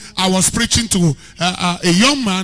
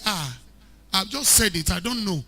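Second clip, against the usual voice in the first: soft, gentle good-English apology; soft and mild; 7 dB quieter than usual. Shown as a demonstration. Preacher contrasting good English, very soft and mild. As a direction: ease it out softly and mildly. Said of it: "Very soft and very mild".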